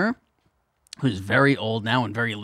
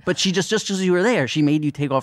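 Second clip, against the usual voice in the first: pitched-up indignant dad, easing down; retold fury; 5 semitones higher than usual. Dad hearing about the shoes next day, mock furious. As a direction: mildly imitate an outraged dad. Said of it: "he's furious 'cause he's like".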